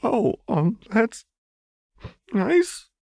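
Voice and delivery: high, hesitant nervous words; wary servant replying; cautious reply. A narrator's reading. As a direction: tread carefully. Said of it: "Chuck replied cautiously".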